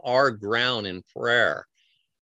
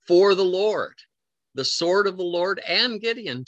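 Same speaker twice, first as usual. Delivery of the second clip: preacher's shout; 6 semitones higher than usual. Shown as a demonstration. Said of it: "stand shouting".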